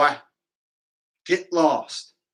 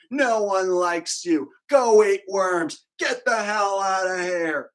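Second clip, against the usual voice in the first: mock troll taunts; 3 dB louder than usual. Reading out a troll's insults.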